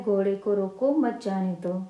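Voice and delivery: "घोड़े को रोको" as one unit, break, then मत जाने दो; pause after रोको. Shown as a demonstration. Teacher reading the example sentence to students, pause after रोको. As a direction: put the comma after रोको, keeping मत with जाने दो. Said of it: "रोको की यहाँ पर हम अल्प विराम".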